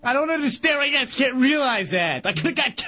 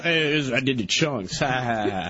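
mock gloating; 11 semitones lower than usual. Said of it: "He's probably talking about".

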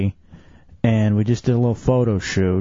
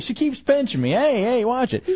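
startled; 10 semitones higher than usual. Real, not acted. Being pinched during lap dance.

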